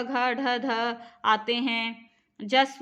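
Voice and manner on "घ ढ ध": very slow, each letter spaced out; slow letter recital. Shown as a demonstration. Teacher dictating letters to students, very slow. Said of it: "teacher reciting the letters".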